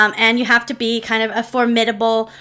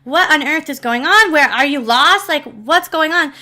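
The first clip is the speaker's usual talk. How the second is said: mildly alarmed, higher-pitched questioning; concerned; 4 semitones higher than usual. Retold or imitated. Mom questioning a lost little girl, concerned. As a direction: imitate a worried mom firing questions. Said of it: "then she becomes concerned".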